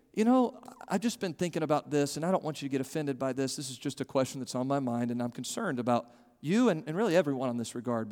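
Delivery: soft, sincere, concerned question; gentle soft asking. Shown as a demonstration. Preacher showing the flock how to ask a friend softly. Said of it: "But to ask someone is to say".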